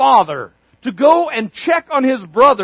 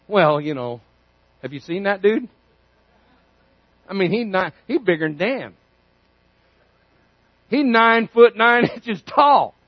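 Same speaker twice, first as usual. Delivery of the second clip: scared soldiers; 4 semitones lower, 3 dB quieter than usual. Acted. Soldiers describing Goliath.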